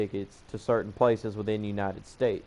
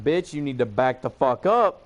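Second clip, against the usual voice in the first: retold warning at an ordinary pace; firm warning. Him to the woman up in his face, firm warning in one run. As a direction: re-enact telling someone to back off.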